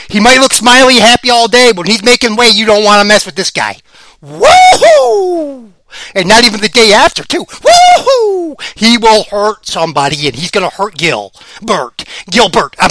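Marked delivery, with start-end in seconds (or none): 4.2-5.7 long, loud, high woohoo cheer; high whoop. Acted. Cheering for the fighter. 7.5-8.6 long, loud, high woohoo cheer; high whoop. Acted. Cheering again.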